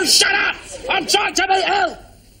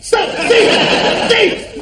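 calling out; 6 semitones higher, much slower than usual. Acted. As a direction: call out after the thief. Calling out after a thief.

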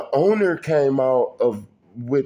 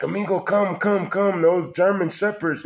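put-on mild Mexican-accented urging, a bit higher; light Mexican accent; 5 semitones higher than usual. An old Mexican neighbor warns him off the German Shepherds, in a mild Mexican accent. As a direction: call him over with a hint of a Spanish accent. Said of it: "like he was saying it in Spanish and English".

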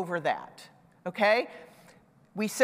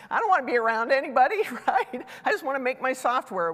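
mock grumpy developer; 4 semitones higher, faster than usual. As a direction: play the antisocial coder, hammed up a little.

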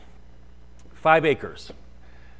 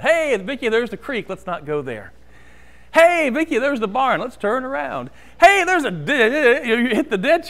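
retold urgent warning; 2 semitones higher than usual. Driving instructor warning new driver away from obstacles, mock alarm.

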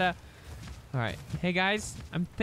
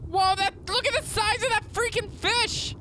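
amazed whoa; 13 semitones higher than usual. Real, not acted. Huge fish spotted while swimming.

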